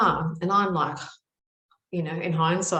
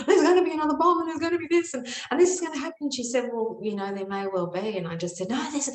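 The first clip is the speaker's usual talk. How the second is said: frantic ranting; 9 semitones higher, faster than usual. Retold or imitated. Frantic rant at her aunt about a coming bomb. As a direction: blurt it all out in a high-pitched panic. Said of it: "I was ranting and carrying on".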